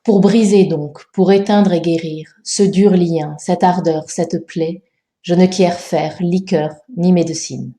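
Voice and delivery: measured recital with short pauses between phrases; scanned verse reading. Shown as a demonstration. Teacher proposing a correction of the tercet, scanned verse reading. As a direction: recite the tercet in even, counted syllables. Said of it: "Voici une proposition de correction".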